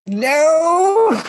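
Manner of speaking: sharp high shout of denial; loud denial. Acted. Denying he is crying.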